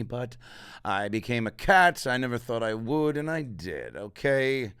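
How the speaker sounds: slow, defensive celebrity voice; a slow, lightly put-on movie star justifying himself; Kevin Spacey impression. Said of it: "Kevin Spacey in Nine Lives".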